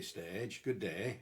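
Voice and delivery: slow Yorkshire long open vowel on "stage"; Yorkshire monophthong in "stage, good day"; Yorkshire accent. Retold or imitated. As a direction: imitate a Yorkshire speaker saying "stage" and "day". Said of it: "Yorkshire people will say".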